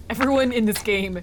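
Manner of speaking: frustrated outburst, climbing at the end; vent, building to a high cry; pissed off. Real, not acted. Player in a mood at the game's characters, pissed off. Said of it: "Sorry, I'm in a mood".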